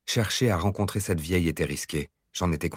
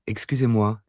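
kitten voice; 3 semitones higher than usual. Acted. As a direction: mew it like a shy kitten. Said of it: "ai-je miaulé à mon tour".

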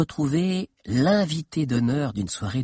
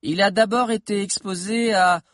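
lightly voiced boy, higher pitch; slightly raised, hesitant schoolboy voice; nervous young historian lecturing; 7 semitones higher, 5 dB louder than usual. A narrator's reading. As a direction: start a careful lecture, pausing between phrases. Figure of Valère starting his lecture.

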